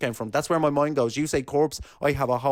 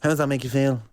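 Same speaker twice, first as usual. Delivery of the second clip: laughing echo; 3 dB louder than usual. Pretend. Repeats the therapist line.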